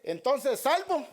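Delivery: preacher mimicking scoffers' sarcasm; mock sarcasm. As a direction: sneer it like a scoffer. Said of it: "dicen con sarcasmo".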